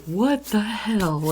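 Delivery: slow, high-pitched retold disbelief; shocked exclamation. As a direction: draw it out in astonishment, imitating the friend. Friend's shocked reaction retold.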